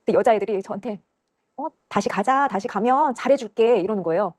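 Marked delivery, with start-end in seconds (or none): 1.6-3.8 high, drawn-out luring voice; slow singsong coax, retold. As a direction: imitate girls sweetly luring someone back. Girls coaxing the speaker back.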